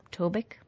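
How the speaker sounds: Tobic with a short "i", to-bick; corrected pronunciation, tried out. Shown as a demonstration. Host testing a listener's correction, Tobic as to-bick. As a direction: try Tobic questioningly, ending on "bick". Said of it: "is usually pronounced Tobic".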